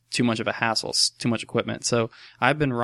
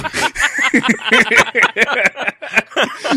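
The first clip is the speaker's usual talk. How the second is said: high, loud burst of laughter; helpless cackling laugh; laughing hard; 10 semitones higher, 6 dB louder than usual. Real, not acted. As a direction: crack up at your own story. Cracking up at own story.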